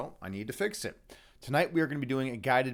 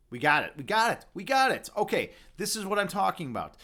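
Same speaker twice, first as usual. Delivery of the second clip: rising louder and higher with each repeat; triumphant; 5 semitones higher, 5 dB louder than usual. Real, not acted. Streamer finally gets the camera in focus, triumphant. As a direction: build to a real victory cry.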